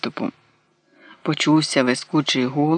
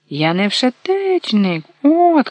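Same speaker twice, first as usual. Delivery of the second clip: shouting; 7 semitones higher, slower than usual. A narrator's reading. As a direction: yell it in protest. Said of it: "крикнув карлик". (кричить високо й голосно)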